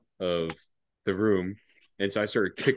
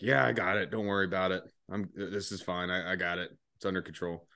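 reassuring corporal; 3 semitones lower, 5 dB quieter than usual. Retold or imitated. Corporal reassures the staff sergeant.

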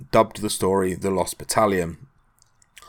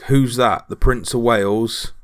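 mock shouted retort, a little raised; retold shout back; 3 semitones higher, 5 dB louder than usual. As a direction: call it back as a light jeer. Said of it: "one American shouted back".

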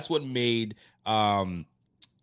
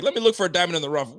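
mocking Evan; 6 semitones higher, 5 dB louder, much faster than usual. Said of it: "Evan's like".

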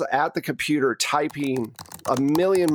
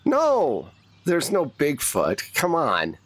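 incredulous dismissal; 3 semitones higher than usual. Acted. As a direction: wave away a ridiculous claim. Agent dismisses player's Bigfoot claim.

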